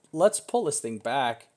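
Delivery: talking through hiccups; hiccuping mid-sentence. Real, not acted. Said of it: "I got the hiccups".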